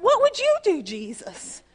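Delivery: high, loud pleading cry with a sudden drop on Jesus; repeated high shout of desperation; blurted cry. Retold or imitated. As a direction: burst out with the plea again. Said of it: "I just went".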